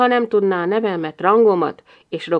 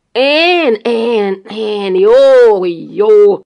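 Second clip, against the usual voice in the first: louder, frantic shouted repeats; beside himself shouting; 8 dB louder, much slower than usual. Acted. Husband shouting at his wife about the dog, beside himself. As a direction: yell it, losing control. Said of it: "kiáltotta Gamberini magán kívül".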